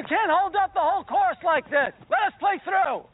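demanding to play through; calling out. Acted. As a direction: yell across the green to let us through. Golf quarrel, calling out.

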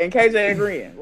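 talking through real laughter; laughing. Real, not acted. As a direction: keep going while giggling. Tickled by comments she reads.

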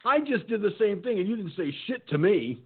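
high, laughing retort; amused husband. Retold or imitated. Husband laughing at his wife in line, high amused retort. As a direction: tease her through a laugh. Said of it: "laughing his ass off because he's like".

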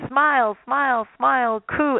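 put-on high, sing-song mother cooing at baby; lightly voiced doting mom. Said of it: "the mother's like".

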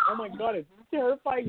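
high-pitched mock alarm; retold alarm. Podcaster retelling rewatching the spider film, mock alarm. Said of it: "and I'm like".

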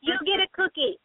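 high, teasing voice like praising a pet; mock praise. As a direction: pat him on the head with your voice. Rewarding husband like a pet.

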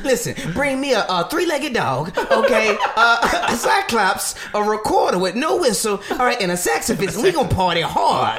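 hyped up, laughing through it; excited. Retold or imitated. Continues Kel impression list.

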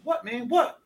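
high-pitched, impatient imitated reply; mock irritated. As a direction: answer as if pestered once too often. Acted annoyed reply to being called.

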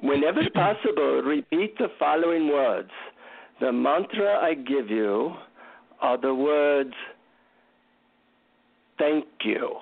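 lightly voiced Indian guru accent; measured guru speech with a hint of Indian accent; mock-solemn Indian-accented guru. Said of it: "in his, you know, deep Indian accent".

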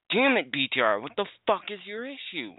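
furious outburst. Real, not acted. Raging at his internet provider.

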